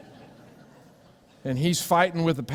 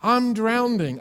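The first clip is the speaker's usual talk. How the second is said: panicked cry; 8 semitones higher, 4 dB louder, slower than usual. Pretend. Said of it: "standing before God going".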